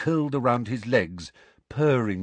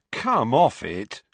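slow, louder groan; 3 semitones higher, 5 dB louder, slower than usual. Acted. Ron resists Hermione, slow groan. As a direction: drag it out with a groan. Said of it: "groaned Ron".

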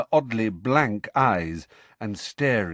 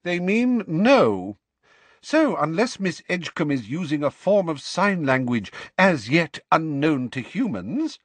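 cold McGonagall; 7 semitones higher, 3 dB louder than usual. Acted. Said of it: "said McGonagall coldly".

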